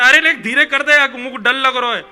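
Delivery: loud, high imitation of a scared cry; frightened yell. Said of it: "तो वो चिल्ला के कहता".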